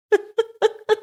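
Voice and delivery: high-pitched burst of laughter; helpless giggle. Real, not acted. Speaker laughing at own botched name, high giggle. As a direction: crack up at your own mistake.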